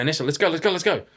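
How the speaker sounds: retold urgent call. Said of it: "I go".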